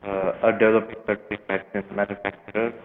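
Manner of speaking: bad phone line, speaking away from the phone; muffled, phone held off from the mouth. Real, not acted. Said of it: "we're having a similar issue with, uh, your, uh, signal".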